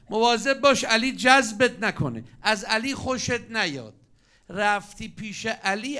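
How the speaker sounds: loud, high, slow warning to the messenger; urgent warning. Acted. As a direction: drag each word out as a loud high alarm. Talha and Zubair warning the messenger. (هشدار بلند و کشیده با صدای زیر)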